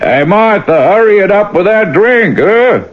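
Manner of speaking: high call to another room. Acted. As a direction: shout it to the kitchen. Calling to wife in next room.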